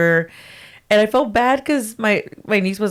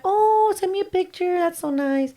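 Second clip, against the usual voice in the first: excited; 10 semitones higher, 5 dB quieter than usual. Retold or imitated. Excited reply to sister's cat news.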